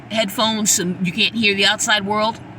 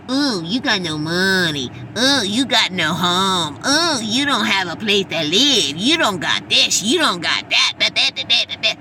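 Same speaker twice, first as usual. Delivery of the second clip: mocking taunt; 4 semitones lower than usual. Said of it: "y'all making fun of me, talking about".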